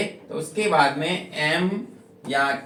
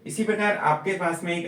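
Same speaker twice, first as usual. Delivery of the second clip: usual speaking voice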